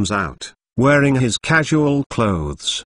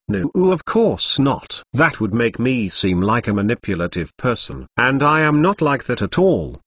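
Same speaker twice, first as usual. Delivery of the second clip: sarcastic. Acted. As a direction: play it lightly sarcastic. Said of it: "and sarcastically says".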